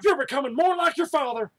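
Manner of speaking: high squeaky rabbit voice; high-pitched old hare voice; Peppy voice. Acted. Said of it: "That's Peppy".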